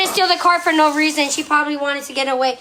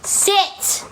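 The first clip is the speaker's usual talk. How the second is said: whispered "Sit" at the dog; whispered dog command; 2 semitones higher, 3 dB quieter than usual. Real, not acted. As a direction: hiss a firm command at the dog.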